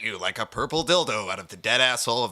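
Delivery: booming host intro voice; announcer. Acted. Host opening his own show with a big announcer voice. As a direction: hype up the show like a radio announcer. Over-the-top podcast intro.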